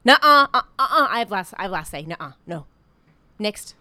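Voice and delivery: mock sassy dismissal. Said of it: "but Tabitha's like".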